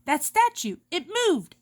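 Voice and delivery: a touch of alarmed crying out; startled, pitch rising on moved; frightened cry. Acted. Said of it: "Edna cries".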